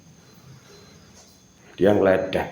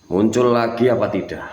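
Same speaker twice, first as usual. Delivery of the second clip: higher, louder commanding call; loud demand; 5 semitones higher, 5 dB louder than usual. Real, not acted. Ghost hunter demanding the spirit show itself, loud call.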